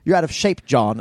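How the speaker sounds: imitated Australian movie bad guy; Australian accent. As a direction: taunt in a put-on Australian accent. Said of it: "he has an Australian accent".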